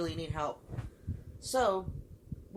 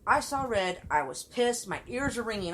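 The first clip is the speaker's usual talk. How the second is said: still angry; 4 semitones higher, 4 dB louder than usual. Real, not acted. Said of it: "I haven't been this angry".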